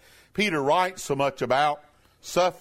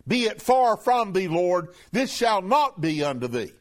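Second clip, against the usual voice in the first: mild rebuke; 2 semitones higher than usual. Retold or imitated. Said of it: "began to rebuke him".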